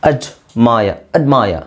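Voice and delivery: ಅಡ್ಮಾಯ with no r sound at the end; teacher showing admire without r; silent r. Shown as a demonstration. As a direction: drop the r in ಅಡ್ಮಾಯ. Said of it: "ಆರ್ silent ಆಗಿರುತ್ತೆ".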